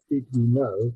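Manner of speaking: 'did you know' with each word kept distinct; separated words. Shown as a demonstration. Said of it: "So it's not 'did you know'".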